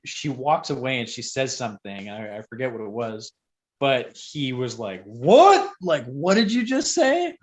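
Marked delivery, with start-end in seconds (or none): 5.0-7.4 high, loud indignant challenge; indignant boss. Retold or imitated. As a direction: fire it back at the customer in disbelief. Boss confronting a rude customer.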